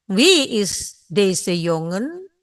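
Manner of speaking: slow, careful Dutch question; slow model sentence. Shown as a demonstration. Teacher slowly models the question for students. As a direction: say it slowly for learners to repeat. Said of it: "Jongen adalah laki-laki".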